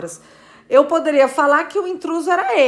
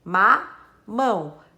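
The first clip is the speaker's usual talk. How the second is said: split into syllables; 4 semitones lower, much slower than usual. Shown as a demonstration. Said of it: "Tem duas sílabas".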